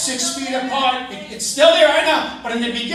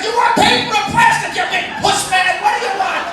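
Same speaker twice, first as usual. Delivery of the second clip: put-on gruff old vet; 4 semitones higher, 4 dB louder than usual. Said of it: "he's like".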